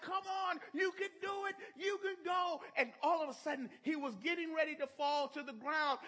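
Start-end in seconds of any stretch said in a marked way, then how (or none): 0.0-2.6 high cheering shout from the stands. Retold or imitated. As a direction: yell him on like a proud dad. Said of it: "I was screaming".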